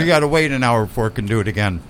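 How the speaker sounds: talking with a mouthful; words round a bite of fish; mouth full. Real, not acted. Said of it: "you got your mouth full".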